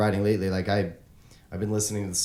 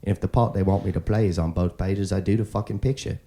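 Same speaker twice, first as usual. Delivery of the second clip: Michael Caine impression; 4 dB louder than usual. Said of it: "I can't do Michael Caine".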